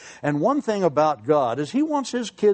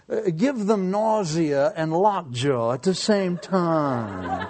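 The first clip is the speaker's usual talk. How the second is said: mock wicked prayer; slower than usual. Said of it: "Evil mind here".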